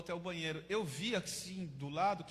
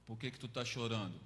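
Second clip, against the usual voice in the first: tough cellmate; 9 semitones lower than usual. Acted. Tough cellmate asks why crying.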